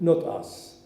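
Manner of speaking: the mayor's slogan, stated with conviction; firm quote. Retold or imitated. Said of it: "And she said".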